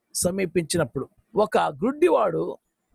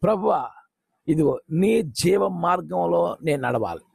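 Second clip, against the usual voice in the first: sincere prayer. Shown as a demonstration. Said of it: "అలా కాదు".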